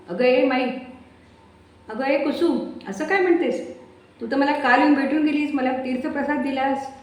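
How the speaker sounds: can't believe what she hears; baffled. Acted. Mai protests in disbelief to Kusum on the phone.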